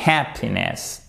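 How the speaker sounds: "happiness" with short HAP closed on p; correct happiness. Shown as a demonstration. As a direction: stress the first syllable of "happiness". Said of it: "Ça n'a rien à voir avec".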